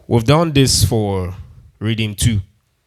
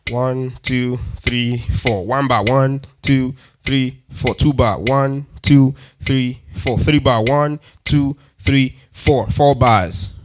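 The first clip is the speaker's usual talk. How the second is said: counting the bars; slower than usual. Shown as a demonstration. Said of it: "Now look at this".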